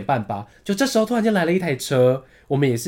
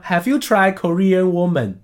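imitated accented English, drawn out; heavy taxi-driver accent; 3 semitones higher, slower than usual. Korean taxi driver asks passenger an odd question, accented English. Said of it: "他口音有点重".

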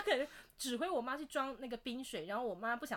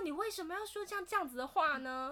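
exasperated retort; 6 semitones higher than usual. Retold or imitated. Retold quarrel with dad.

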